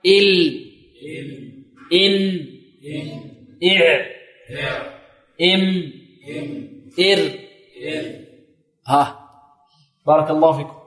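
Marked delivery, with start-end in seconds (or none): 0.1-7.3 إن, إم and the rest as separate held syllables; repeat-after-me letter drill. Shown as a demonstration. Teacher leading students to repeat, measured letter drill. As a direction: let each final consonant of ال، إن، إع ring, then pause. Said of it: "ها، انطق معي".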